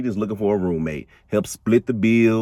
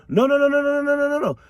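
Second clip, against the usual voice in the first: voicing Alice; much faster than usual. Alice waves off the suspicion.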